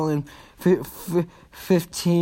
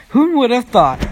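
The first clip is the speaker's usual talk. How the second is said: mock surprise; 8 semitones higher, 6 dB louder than usual.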